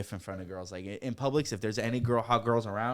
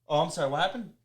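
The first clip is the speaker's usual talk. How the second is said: laughing, higher fake apology; mock innocent; 5 semitones higher, faster than usual.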